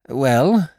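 impatient demand. Acted. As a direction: prod them impatiently. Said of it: "I demanded impatiently".

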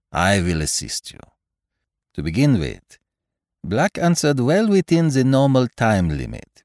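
put-on methodical detective in a French-style accent; Poirot, foreign-accented detective. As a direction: reason it out aloud with a foreign accent. Voices Poirot in dialogue.

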